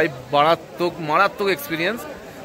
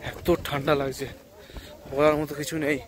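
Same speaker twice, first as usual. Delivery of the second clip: runny nose from the cold; stuffy nose voice; blocked nose; 5 dB quieter than usual. Real, not acted. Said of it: "সর্দি হয়ে যাচ্ছে নাক থেকে".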